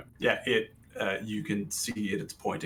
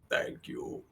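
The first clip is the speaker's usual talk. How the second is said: construct voice; 4 dB quieter than usual. Acted. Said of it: "from its face, just says".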